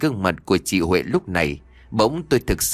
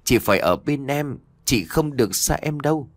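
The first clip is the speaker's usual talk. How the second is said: a higher, half-hearted shout; mild mock yell; 5 semitones higher than usual. Boy clinging to his ghost sister, mild pleading cry. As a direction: cry out to keep her from leaving. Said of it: "Giọng của tôi liền hét lên".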